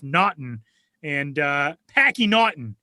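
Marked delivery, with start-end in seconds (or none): 1.9-2.7 put-on Boston accent. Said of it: "Packy is a nickname".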